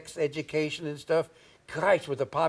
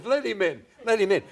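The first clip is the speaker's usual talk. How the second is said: imitating Ed Wynn; 4 semitones higher than usual. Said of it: "Is that how he talks?".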